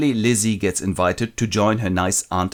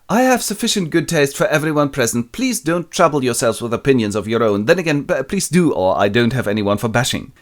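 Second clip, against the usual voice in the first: haughty lady; 3 semitones higher than usual. Retold or imitated. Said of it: "Lady de Bourgh's manor".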